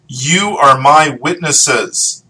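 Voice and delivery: witnesses drawn out slowly and leaned on; slow down and weigh the word witnesses; stressing witnesses, slow and deliberate; emphasis on witnesses. Shown as a demonstration. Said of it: "I kind of emphasize the word witnesses".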